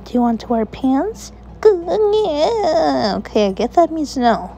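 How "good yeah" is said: laughing. Real, not acted. Laughing at baby.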